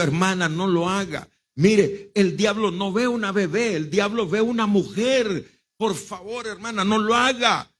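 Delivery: retold earnest plea, rising in pitch; urgent pleading. Pastor begging a mother to protect her daughter, urgent. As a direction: plead with growing insistence.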